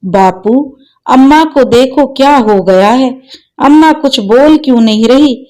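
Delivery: put-on a sobbing boy begging his father; crying. Son clings to father begging him to wake mother, tearful pleading. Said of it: "रोते हुए बोला".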